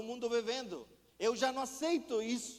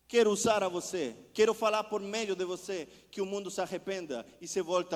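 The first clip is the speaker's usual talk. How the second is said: voice of God rising; 3 semitones lower, 4 dB louder than usual. Retold or imitated.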